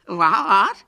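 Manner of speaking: high, loud yelp of disbelief; shocked. A narrator's reading. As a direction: yelp it in alarm. Hubert hears bad news.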